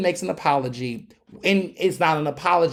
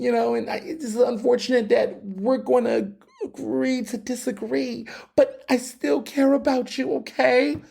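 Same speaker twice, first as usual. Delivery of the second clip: mock tearful white apology; 5 semitones higher than usual. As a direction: play the hand-wringing ally pretending to be hurt. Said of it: "pretend they're about to cry situation".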